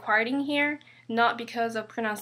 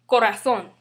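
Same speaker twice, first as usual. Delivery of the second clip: corazón with the final -zón stressed; stress on last syllable; 5 dB louder than usual. Shown as a demonstration. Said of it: "we pronounce it as corazón".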